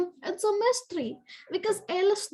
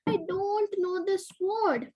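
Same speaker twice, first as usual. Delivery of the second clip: squeaky elf; 2 semitones higher, slower than usual. Acted. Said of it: "the L squeaked".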